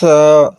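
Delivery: سا said soft, no hiss; teacher modelling a soft letter; soft tha. Shown as a demonstration. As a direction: soften سا. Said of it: "یہ نرم ہے".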